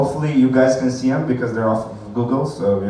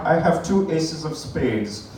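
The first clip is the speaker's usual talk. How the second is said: put-on slow drunken card bluff; 2 semitones higher, 4 dB quieter, slower than usual. Tipsy player bluffing at a card game, drunk and slow. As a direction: drag the words out like a drunk player. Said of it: "If you're drunk".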